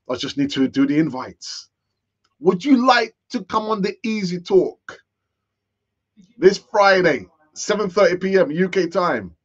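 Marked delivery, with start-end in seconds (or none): 2.4-9.3 lightly put-on, eager inviting voice, a bit higher and louder; mock polite invitation. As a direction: pretend to ring a guest and invite them sweetly. Acts out inviting a contributor.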